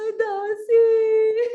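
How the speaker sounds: high, loud drawn-out mock sob; hammed-up crying call to the maid; wailing queen. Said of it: "वह फूट फूट के रोने लगी". (फूट-फूट कर रोने का नाटक)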